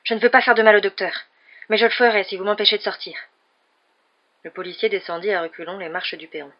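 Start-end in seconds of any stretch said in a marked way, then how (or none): 0.0-3.2 loud, raised, panicky warning; panicked threat. A narrator's reading. Cornered young man to the police, panicked and loud. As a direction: threaten though scared stiff. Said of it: "sourde panique".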